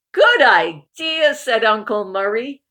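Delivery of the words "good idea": higher, loud, slow good idea; hearty refrain. Acted. Uncle Murray's catchphrase agreement, higher and loud. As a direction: sing out the catchphrase.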